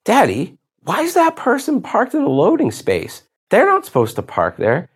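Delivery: son's voice, lightly imitated by dad; imitating his young son. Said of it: "he looks at me and he goes".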